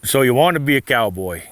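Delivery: reciting cowboy poetry aloud; poem recitation. Acted. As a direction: open the poem with a storyteller's lift. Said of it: "really wrote is called".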